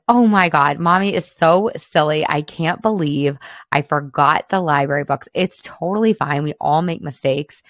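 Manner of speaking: put-on reassuring mommy talking to her child about forgotten books; cheerful mom voice. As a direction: play it light and upbeat for the kid. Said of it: "what I said out loud was like".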